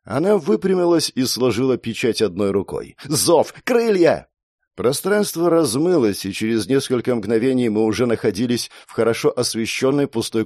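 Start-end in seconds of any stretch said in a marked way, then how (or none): 3.1-4.3 cried-out incantation, rising high; spell command. Acted. Girl summons wings to escape, commanding cry. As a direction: call out the summons forcefully.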